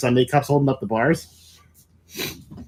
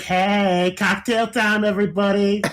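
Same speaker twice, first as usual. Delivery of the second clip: lightly sing-out, raised announcement; party hostess call; 4 semitones higher, slower than usual. Retold or imitated. Bride going round with drinks, playful hostess call. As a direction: call it out cheerily, a little higher.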